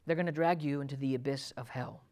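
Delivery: sudden hush after the rebuke; grave warning. Acted. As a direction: drop to a low, soft, grave warning. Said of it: "this faithful brother says to his friend".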